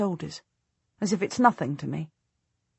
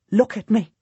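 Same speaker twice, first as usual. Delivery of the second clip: demanding; 4 semitones higher, 4 dB louder than usual. Acted. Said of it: "I demand".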